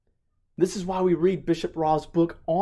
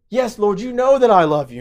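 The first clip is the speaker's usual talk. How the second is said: earnest Peter; 5 semitones higher, 6 dB louder than usual. Retold or imitated. Peter's third earnest answer.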